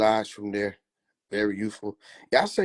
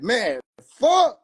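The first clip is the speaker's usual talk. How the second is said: much higher, louder fed-up curse; exasperated Shroom; 10 semitones higher, 5 dB louder than usual. Acted. Shroom fed up when rapper pops shrooms, high voice. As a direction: groan it as a worn-out mushroom. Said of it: "Shroom like".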